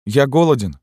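put-on high, loud child's whimper; whiny child. A narrator's reading. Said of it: "сказал один".

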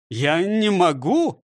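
slow, mildly moaning refusal; a touch of a whine. Acted. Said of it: "простонал он". (жалобно)

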